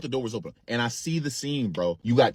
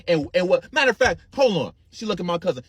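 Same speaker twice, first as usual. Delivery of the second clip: ordinary talk, nothing marked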